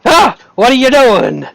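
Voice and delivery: high startled yelp when picked up; lightly acted fright; startled cry. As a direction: jump as you're lifted off the ground. NPC lifted up in surprise.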